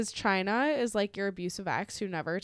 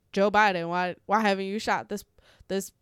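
put-on Southern accent; 5 dB louder than usual. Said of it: "I can't really do a good Southern accent".

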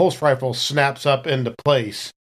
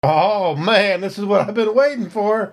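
eager; 8 semitones higher than usual. Acted. Eager soldier wanting to shoot.

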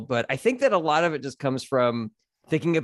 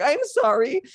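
mock childish apology; 9 semitones higher than usual.

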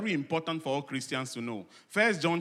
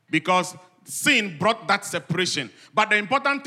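higher, emphatic pulpit voice; raised voice teaching the congregation; preaching; 5 semitones higher, 6 dB louder than usual. Real, not acted. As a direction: preach it with urgent force.

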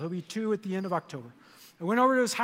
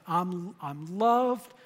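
slow repeated affirmation; slower than usual. Shown as a demonstration. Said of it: "Why don't you say that with me".

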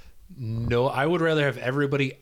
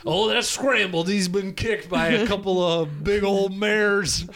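hick dog owner; 7 semitones higher than usual. Pretend. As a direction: play a folksy farmer telling you about his dog.

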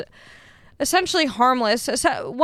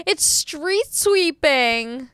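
slow, higher, stretched-out mock holler; imitated yelling; 4 semitones higher, much slower than usual. Lady across the street warning the driver, imitated yelling. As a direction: call it out with drawn-out words. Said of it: "she's, like, yelling at me".

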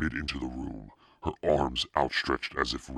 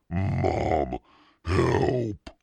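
high, loud acted panic; calling for help; 5 semitones higher, 5 dB louder than usual. A narrator's reading. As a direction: cry out for rescue as a scared child. Trembling brother calls for help.

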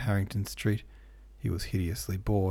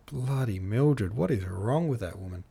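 exasperated. Real, not acted. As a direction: groan about her like a fed-up fan. Host vents about a character.

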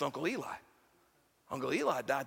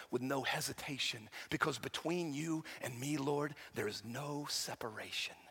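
soft recited lyrics; 5 semitones lower, 5 dB quieter than usual. Acted. Song bridge recited.

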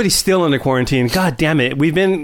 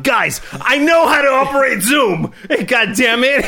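mock angry yell at the guys, laughing through it; imitating a friend snapping, half-laughing; playful impression of a frustrated friend's outburst; retold yelling; 7 semitones higher than usual. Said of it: "he was yelling at me".

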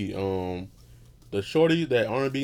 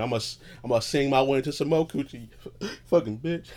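R and B me; 4 semitones higher than usual. Acted. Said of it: "That was the R and B me".

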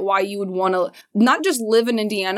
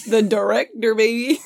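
proud. Pretend. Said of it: "Say it and say it with pride".

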